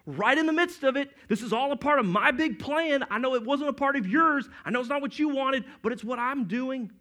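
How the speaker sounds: God answering worried Israel, firm and emphatic; voicing God. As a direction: speak as God answering his people, firm and sure. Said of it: "And God's going".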